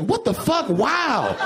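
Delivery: very high mock-scandalized gasp; shocked pearl-clutching. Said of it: "I'm like".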